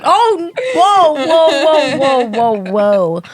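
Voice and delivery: alarmed whoas, high at first then settling; mock alarm, tumbling down in pitch; retold shock in a run of whoas; startled whoas. Retells startled first arousal.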